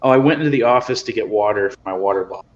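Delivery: hollow, echoey sound; as if talking from a tunnel; echoing tunnel. Real, not acted. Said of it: "You sound like you're in a tunnel now".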